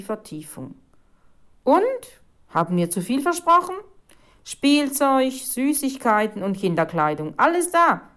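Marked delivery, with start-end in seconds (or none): 1.6-8.0 raised, proud showing-off; triumphant. A narrator's reading. Boys showing the reporter the loot, triumphant. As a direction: present the haul in triumph.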